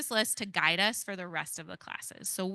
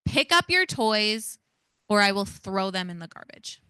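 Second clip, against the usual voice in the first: threatening yell; 5 dB louder than usual. Shown as a demonstration. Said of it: "I'm going to yell".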